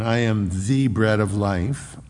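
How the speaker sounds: "the" drawn out as an emphatic "thee"; stress on THE. Shown as a demonstration. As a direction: lean slowly on "the". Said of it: "definite article".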